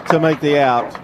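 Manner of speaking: rising radio baseball call; play-by-play call. Acted. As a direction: call the play live, building.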